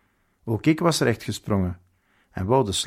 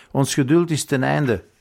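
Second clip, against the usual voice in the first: raised, louder stern outburst; shouted; 4 semitones higher, 4 dB louder than usual. Acted. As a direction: shout it at the prisoner, out of patience. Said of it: "schreeuwde de majoor".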